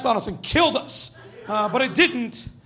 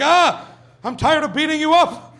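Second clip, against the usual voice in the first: put-on kid's voice; 4 semitones higher, 5 dB louder than usual. Kids' playground dialogue voiced.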